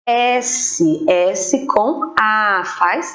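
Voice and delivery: "S com A" slow, letter by letter; slow spelling. Shown as a demonstration. Teacher to pupils, spelling the syllable sa slowly. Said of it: "a letra tem que ser".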